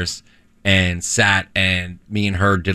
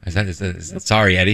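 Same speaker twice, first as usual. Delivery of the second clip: crying; faster than usual. Real, not acted. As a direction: choke up while saying sorry. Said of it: "Sorry, sorry, I can't stop crying".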